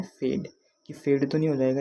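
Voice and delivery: फेड said carefully as "fade", clear long vowel; proper pronunciation. Shown as a demonstration. Teacher showing the proper pronunciation of फेड. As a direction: say फेड the correct English way. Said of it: "असली इसका pronunciation क्या है".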